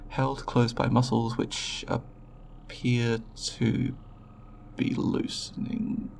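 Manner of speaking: slow down as you notice it; dawning realisation. Acted. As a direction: dictation dragging slowly to a halt. Examiner notices subject waking mid-dictation.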